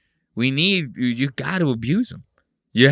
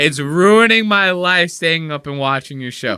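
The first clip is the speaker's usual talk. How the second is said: mock whiny viewer; 3 semitones higher, 5 dB louder than usual. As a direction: whine like a tired fan. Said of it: "This person said".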